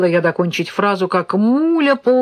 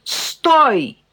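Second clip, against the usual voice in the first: higher, urgent cry to stop; yelling like mad; 8 semitones higher, 3 dB louder than usual. A narrator's reading. Mother warning son off the egg chair, urgent yell. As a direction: shout to stop him sitting. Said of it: "я заорала, как ненормальная".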